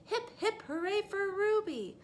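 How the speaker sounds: high, loud hip hip hooray; cheer. Acted. Townspeople cheering for Ruby, high and loud.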